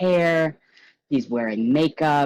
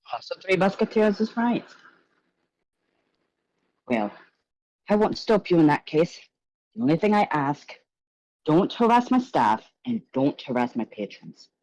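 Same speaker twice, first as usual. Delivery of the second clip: high, gushing showman's voice; flamboyant host; 4 semitones higher, faster than usual. Acted. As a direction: greet the guests like a theatrical charmer. Gallagher sets rules, excuses himself.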